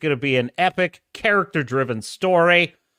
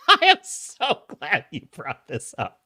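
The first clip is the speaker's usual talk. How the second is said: gleeful repeat. Pretend. Repeats reply differently, after a laugh.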